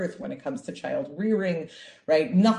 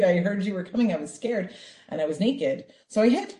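put-on childish excuse. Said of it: "Such a, you know, child response".

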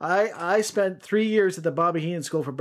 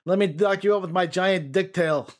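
villain voice; 3 semitones higher than usual. Pretend. Voicing Scorpion's taunt.

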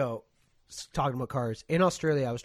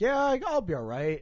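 mock overconfident; 10 semitones higher, 8 dB louder than usual. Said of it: "and I'm like".

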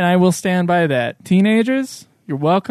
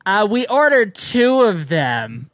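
put-on slow, a touch of an old lady; lightly voiced fussy old lady; old lady calls across the room; 2 semitones higher, slower than usual. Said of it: "Old lady from across the room goes".

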